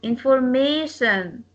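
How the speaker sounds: "Information" with MA stressed. Shown as a demonstration. Teacher shows word stress to a class, stress on MA in "Information". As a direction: lean on the MA in "Information". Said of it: "We stress may".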